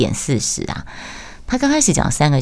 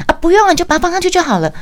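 much higher, loud, rushed impatient shout; imitated yelling; 4 dB louder, faster than usual. The boss brushing off her method while restocking, fast loud mock yell. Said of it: "然后他就在那边吼".

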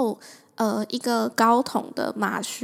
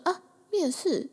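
surprised; 7 semitones higher than usual. Retold or imitated. Surprised by interview call.

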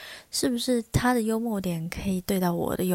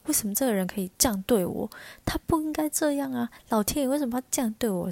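indignant rant; 4 semitones higher, faster than usual. Retold or imitated. Acting out indignant inner rant.

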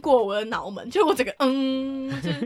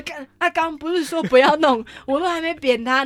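stunned disbelief; 5 semitones higher, 5 dB louder than usual. Retold or imitated. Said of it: "我想说".

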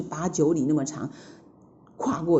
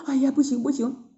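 reluctant refusal; 6 semitones higher than usual. A narrator's reading. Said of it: "他们一直摇头说".

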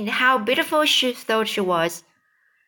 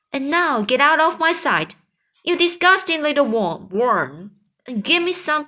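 scornful aunt; 7 semitones higher than usual. Acted. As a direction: drive him away with contempt. Aunt dismissing James in anger.

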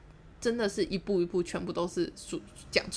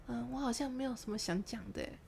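soft, higher, hesitant voice; meek backing down; 5 semitones higher, 8 dB quieter than usual. Retold or imitated. Speaker giving up the lie, meek. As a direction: say it small and evasive.

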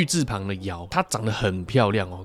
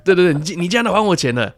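jovial gangster boss; 6 semitones higher, 4 dB louder than usual. Retold or imitated. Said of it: "那大哥说".

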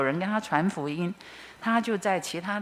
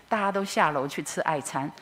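ordinary talk, nothing marked

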